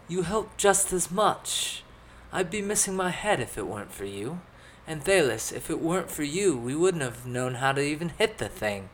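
high, kindly character voice; friendly companion. A narrator's reading. Skamos reassuring both companions after the fight, high friendly voice.

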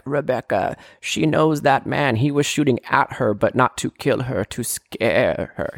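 lightly voiced decrepit old man, slow; a hint of an old geezer, slowed right down. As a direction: drag it out like a creaky old man. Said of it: "I don't know why I'm doing that voice".

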